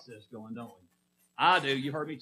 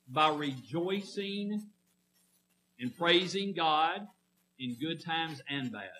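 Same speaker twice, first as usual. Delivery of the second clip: rejoicing and praising drawn out slowly, word by word; slow emphasis; slower than usual. Shown as a demonstration. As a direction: spell it out slowly for the congregation. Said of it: "Does that make sense?".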